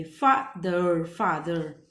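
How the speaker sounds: फादर broken slowly, short first part, stretched low ending; slow low फादर in two parts, then whole. Shown as a demonstration. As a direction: sound out फादर, then blend it. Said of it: "short बोलेंगे".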